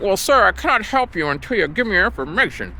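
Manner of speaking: lightly voiced call-center agent; mock phone agent. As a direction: recite it like an unhelpful rep. Imitating stubborn agent.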